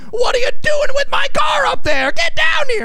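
high mock yell at him; shrieking lady yelling from below; retold yelling. Angry lady yelling at repairman, high mock shout. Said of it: "she's yelling at him".

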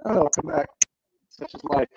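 muffled bad connection audio; underwater. Real, not acted. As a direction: voice garbled like talking underwater. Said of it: "You sound like you're underwater".

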